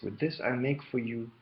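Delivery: lightly put-on Eastern European accent. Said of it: "she was Eastern European".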